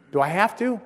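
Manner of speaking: put-on high, childlike reluctant question; acted-out reluctant child; reluctant pleading. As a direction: plead to get out of it.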